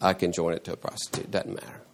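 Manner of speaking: trailing, half-whispered careless dismissal; dismissive mock quote. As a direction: throw the body away with a shrug. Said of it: "to say".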